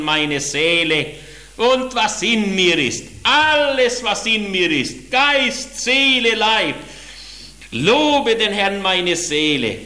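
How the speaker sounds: fervent preacher reciting Psalm 103; preaching psalm recital. Acted. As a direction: proclaim the psalm with full fervour.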